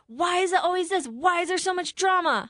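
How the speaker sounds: high, whiny complaining. Retold or imitated. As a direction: whine it like a spoiled girlfriend. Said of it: "in a whiny voice".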